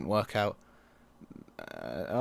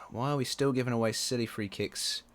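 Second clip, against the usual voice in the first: ordinary talk, nothing marked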